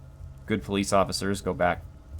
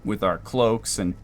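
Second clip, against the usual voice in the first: mock nonchalant; slower than usual. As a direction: play it innocently casual to passers-by. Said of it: "Just nonchalantly".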